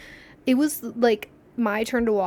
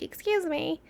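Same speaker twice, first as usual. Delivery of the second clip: higher polite excuse me; 5 semitones higher, 5 dB quieter than usual. Shown as a demonstration. How people usually say excuse me, politely. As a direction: ask politely. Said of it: "you know how people are like".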